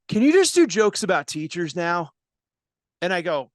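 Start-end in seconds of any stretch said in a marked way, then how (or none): 0.1-2.1 imitated fed-up audience member; impatient, put-upon request; frustrated heckler. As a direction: demand it with mock exasperation. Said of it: "just starts getting frustrated".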